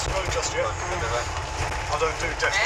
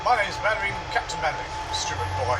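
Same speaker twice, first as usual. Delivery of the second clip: Captain Mainwaring impression. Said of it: "impersonations of the Dad's Army characters".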